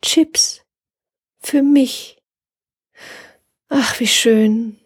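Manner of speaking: high, breathy whispered joy; moved whisper. A narrator's reading. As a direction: whisper it, touched. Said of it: "hörte sie die Frau flüstern".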